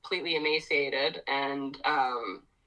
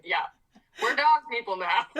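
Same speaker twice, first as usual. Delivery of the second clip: laughing shrug; 5 semitones higher, 4 dB louder than usual. Retold or imitated. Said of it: "I'm like".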